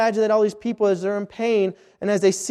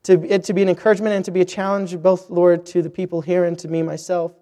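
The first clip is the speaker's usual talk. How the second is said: prayer; 3 semitones lower than usual. Acted. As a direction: pray humbly before preaching. Opening prayer before the sermon.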